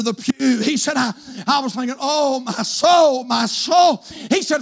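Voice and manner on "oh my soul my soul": slow, drawn-out lament; acted mortified groan. Embarrassed boyfriend thinking under the pew, acted dismayed groan. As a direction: groan it to yourself, stretching each phrase. Acts out his mortified thought.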